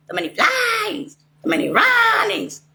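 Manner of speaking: high, slow, breaking cry. Real, not acted. Recounting how they chased her, crying out. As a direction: wail the words out in anguish. Ranting about her suffering.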